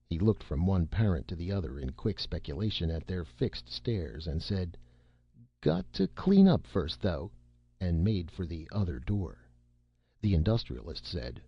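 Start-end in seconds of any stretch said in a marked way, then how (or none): 5.6-7.3 hasty excuse. Acted. Boy dodging, quick escape.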